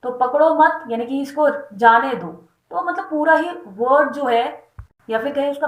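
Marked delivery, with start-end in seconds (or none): 0.1-0.8 पकड़ो मत as one phrase, मत marked; stress on मत. Shown as a demonstration. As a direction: keep पकड़ो मत together. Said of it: "शब्द वही है लेकिन अर्थ बदल जाता है". (पकड़ो मत एक साथ)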